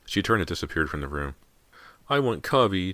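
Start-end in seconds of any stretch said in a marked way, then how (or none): 2.1-2.9 put-on higher-pitched little-boy pout; sulky, whiny insistence; pouting mutter. A narrator's reading. Small brother asks for Cubby, pouting. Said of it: "James muttered, his face drawn into a pout".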